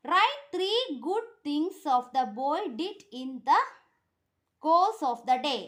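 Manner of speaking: very slow, word by word for pupils; teacher dictating to a class; slow dictation. Shown as a demonstration. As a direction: spell the answer out slowly so they can write. Teacher reads question slowly.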